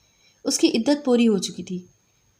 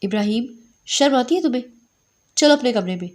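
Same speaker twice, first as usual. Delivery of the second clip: angry scolding. Acted. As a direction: scold him sharply. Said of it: "Sughra بیگم نے غصے سے کہا".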